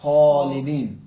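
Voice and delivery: خالدین with a rasping throat kha; teacher models a throat kha; throaty kha. Shown as a demonstration. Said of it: "حرف خا کو تلفظ کریں".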